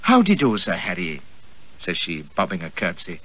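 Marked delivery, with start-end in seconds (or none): 0.0-1.2 mock demure. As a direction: play the demure young lady, teasing. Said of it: "drew herself up mock demure".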